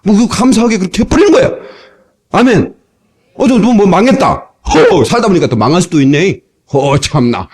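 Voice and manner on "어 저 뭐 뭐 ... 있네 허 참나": laughing it off. Pretend. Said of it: "하면서 웃어버리라".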